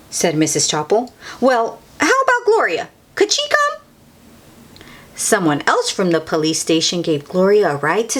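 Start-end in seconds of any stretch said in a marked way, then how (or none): 1.4-3.8 high sweet asking voice; hopeful principal. Acted. Principal asking Officer Buckle on the phone. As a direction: coax him lightly.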